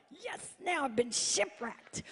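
resigned sigh. Retold or imitated. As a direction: say it like giving up, quietly. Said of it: "I'm like".

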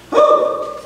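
high unvoiced whoop of delight; gleeful high whoop; excited whoop. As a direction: let out a thrilled ballgame whoo. Thrill of a bat crack.

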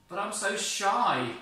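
high, loud bashful protest; shy Moses. Acted. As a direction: plead your shyness.

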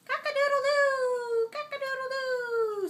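high, loud cock-a-doodle-doo; rooster crow. Acted. Parent reading Barney to child, loud high rooster crow. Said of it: "says the rooster".

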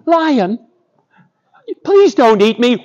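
high, frightened little mouse voice; pleading mouse. Acted. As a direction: beg as a tiny trapped mouse. Mouse begs Lion for its life.

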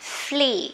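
Flee with the ee drawn out slowly; long ee. Shown as a demonstration. Teacher points out long vowel, Flee drawn out. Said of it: "y dài nhá".

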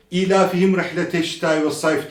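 "ilafihim" with a short first i; unstretched ilafihim. Shown as a demonstration. Quran teacher imitating fast readers, vowels cut short. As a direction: hurry through "ilafihim" without holding vowels. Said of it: "Buradaki ilafihim de uzatılmıyor".

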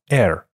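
slow American air with r at the end. Shown as a demonstration. Teacher models the American air sound. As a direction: air said slowly with a curled r. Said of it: "读作".

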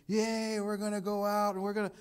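put-on high, cheerful kid voice; excited kids. Kids cheering to a parent about ice cream, high and excited. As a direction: squeal it like a happy child.

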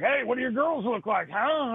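a caller's voice. Retold or imitated. Guy calling the escort line, mock leer. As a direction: pitch it up as a leering guy on the phone. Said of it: "they'd be like".

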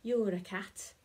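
"You're a cat" said out loud, voiced, in the dog's voice. Corrected take, dog tells the cat "You're a cat" aloud. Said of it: "sorry, it's the dog that said that".

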